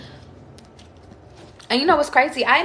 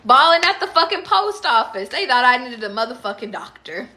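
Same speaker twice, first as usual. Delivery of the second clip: mock rant; 4 semitones higher, 7 dB louder than usual. Venting on camera about crying, hammed-up loud rant. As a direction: ham up a dramatic vent to camera.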